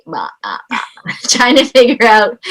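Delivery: small gulping "uh, uh" noises; guppy imitation. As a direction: mimic a speechless guppy. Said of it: "like, a guppy".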